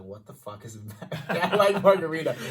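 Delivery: mock-baffled, cracking up; baffled panic. Retold panicked question to bartender.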